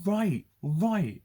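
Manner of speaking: high, loud impatient brush-off; impatient mock. Mimicking people impatient with an emotional person, high and loud. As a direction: snap it like an impatient listener.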